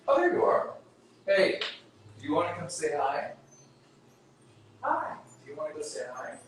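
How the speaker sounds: high cooing voice for a cat; high-pitched talk to a kitty; pet talk. Real, not acted. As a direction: coax the cat sweetly up high. Talking to pet cats off mic.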